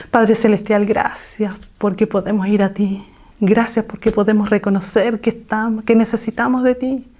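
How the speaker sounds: a prayerful voice, lightly held. Acted. Preacher leading the sisters in closing prayer. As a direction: pray aloud for the congregation.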